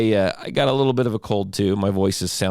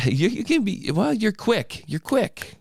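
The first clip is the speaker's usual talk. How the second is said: laughing; 13 semitones higher, slower than usual. Real, not acted. Teasing cohost, laughing.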